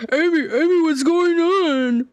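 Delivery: slow, drawn-out cheesy dub read as Knuckles; bad fan-dub voice. Knuckles calling to Amy in a fan dub, hammed-up. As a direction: ham it up like an amateur dub. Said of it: "like one of those dubs".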